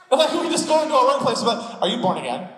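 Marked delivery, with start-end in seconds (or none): 1.8-2.5 "born again" quickly joined, no gap; run together as one word. Retold or imitated. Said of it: "Like, it's one word".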